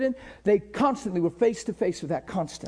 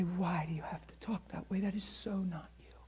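soft unvoiced whisper of God's voice; whispered inner voice; 4 semitones lower, 15 dB quieter than usual. God's inner voice whispering to a young man. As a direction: hush it like a gentle inner nudge. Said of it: "his voice would say".

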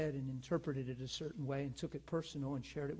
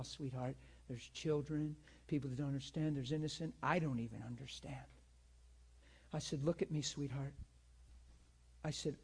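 soft, tender reassurance; calm her down like a hurt friend; gentle reassuring; 5 dB quieter than usual. Retold or imitated. Pastor soothing the upset woman.

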